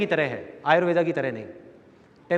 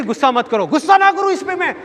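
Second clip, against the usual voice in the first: much higher, louder yelling; furious father shout; 8 semitones higher, 4 dB louder than usual. Retold or imitated. Father shouts as mother begs him to calm down, furious. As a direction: explode at the kid in rage. Father gets angrier, hitting.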